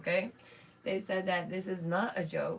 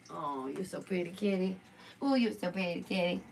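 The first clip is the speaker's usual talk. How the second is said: tender cooing pet talk. Real, not acted. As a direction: fuss over the kitty lovingly. Praising her cat.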